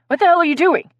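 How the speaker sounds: high, loud, shocked question; startled outburst. Acted. Player reacts to friend ripping off shirt, shocked. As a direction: break out in loud disbelief.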